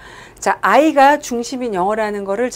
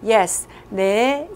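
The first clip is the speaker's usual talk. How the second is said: drawn-out wrong answer; much slower than usual. Shown as a demonstration. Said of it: "이렇게 하면서 대답할 수가 없다".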